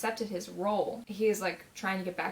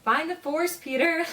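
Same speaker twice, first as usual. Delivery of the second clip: playful higher mock Jedi voice; joking Jedi line; 8 semitones higher, 6 dB louder, slower than usual. Fan joking to Peter in a mock Jedi voice. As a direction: ham up a Star Wars mentor line a bit. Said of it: "Just as a joke".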